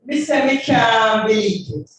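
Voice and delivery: rhythmic Jamaican patois recitation; dub poem. Acted. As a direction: chant it to the beat.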